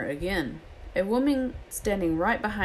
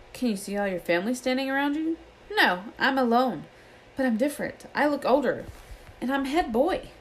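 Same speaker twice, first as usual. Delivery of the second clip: put-on higher, amazed boy's voice; a boy dazzled by his own reflection; Ron's voice; 7 semitones higher than usual. A narrator's reading. Narrator voices Ron.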